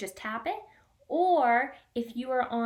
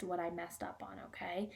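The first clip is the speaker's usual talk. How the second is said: whispering; 3 semitones lower, 11 dB quieter than usual. Real, not acted. Teacher admits mistake softly.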